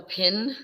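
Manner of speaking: "pin" in the classmate's regional vowel. Retold or imitated. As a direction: say "pin" carefully as the classmate did. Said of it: "I have to get this right".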